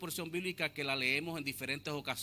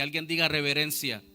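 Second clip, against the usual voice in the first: call to the church; 7 dB louder than usual. Real, not acted. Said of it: "preacher prompts congregation".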